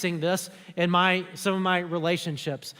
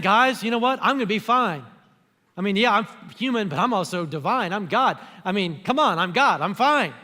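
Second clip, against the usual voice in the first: breezy bravado. Pretend. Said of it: "he's not saying".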